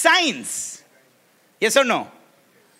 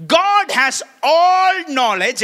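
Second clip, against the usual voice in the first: slow and deliberate; 6 semitones higher, 6 dB louder, much slower than usual. Shown as a demonstration. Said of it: "This is the definition".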